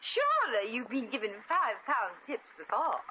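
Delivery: put-on grand lady accent; overdone, unplaceable posh accent; hard-to-place affected accent. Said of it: "Hard to tell what she is with that accent".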